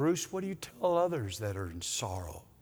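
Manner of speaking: soft, affectionate tone. Pastor retelling crying out to God for comfort: retelling God's tender voice. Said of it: "in his tender voice".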